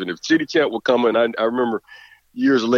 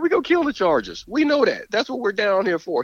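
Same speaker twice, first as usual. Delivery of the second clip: imitating Prime; 7 semitones higher than usual. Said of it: "He said".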